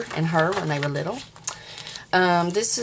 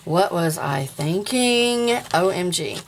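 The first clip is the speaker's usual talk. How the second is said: mock cringe; slower than usual. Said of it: "probably gonna go".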